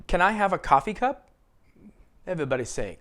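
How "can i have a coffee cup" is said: "coffee" stressed, "cup" kept weaker, question rising at the end. Shown as a demonstration. Teacher modelling a request for learners, stress on COFFEE. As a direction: hit "coffee" harder than "cup" and lift the question. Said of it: "Americans usually stress coffee".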